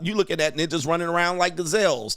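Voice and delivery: normal talking voice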